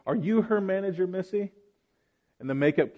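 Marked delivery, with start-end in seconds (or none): 0.1-1.5 pitched-up mock condescension; lightly sneering customer asking for the boss; rude customer. Customer demanding the manager at the counter, mock condescending. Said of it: "turns to the makeup counter employee and says".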